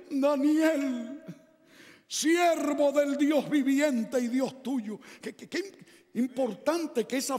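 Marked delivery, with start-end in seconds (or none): 0.1-5.0 sad call. Acted. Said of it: "llamó a voces... con voz triste".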